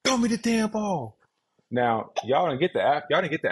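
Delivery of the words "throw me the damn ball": high, exasperated plea into the camera; frustrated demand. Retold or imitated. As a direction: let the frustration spill out, retold. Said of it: "I looked at the camera, frustrated".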